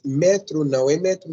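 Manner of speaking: metro said with stress on the first syllable, MEtro; wrong stress on metro, MEtro; stress shift. Shown as a demonstration. Teacher contrasting metro with metrô. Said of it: "Está acentuada".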